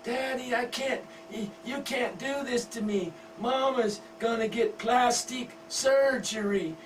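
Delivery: put-on high whining teen begging her daddy; whiny pleading daughter. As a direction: beg like a spoiled teen. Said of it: "She runs to her daddy and screams".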